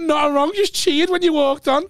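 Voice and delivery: lightly voiced confused heckler; woman in the crowd. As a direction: play her all wide-eyed and hurt, up high. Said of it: "She said".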